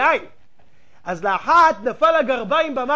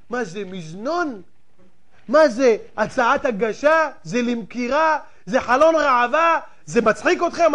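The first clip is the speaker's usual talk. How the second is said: deliberately provocative. Real, not acted. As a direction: hammer the rhetorical questions with mocking indignation. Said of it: "אני מדבר בכוונה ככה".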